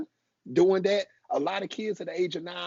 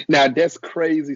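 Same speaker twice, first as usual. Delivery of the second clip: amazed; 9 dB louder than usual. Real, not acted. Host reacting to senator's story.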